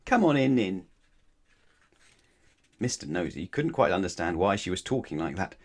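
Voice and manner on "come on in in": high, loud, smiling invitation; smiling welcome. A narrator's reading. Twin welcoming a thirsty visitor in, smiling. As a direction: invite them in heartily. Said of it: "smiled Little Miss Twin".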